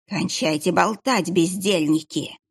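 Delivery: lightly voiced, slow curt rebuke; sinister monk. Monk cuts off the gossiping archers, slow and cold. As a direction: scold them slowly and coldly. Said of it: "проговорил ... монах".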